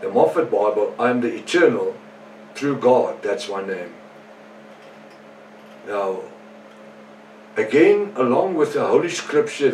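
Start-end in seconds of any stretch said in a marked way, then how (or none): 1.0-3.9 brisker read-through in a usual pitch; quick re-reading. Real, not acted. Preacher recapping verses with little time left, quick re-reading. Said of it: "read them quickly again".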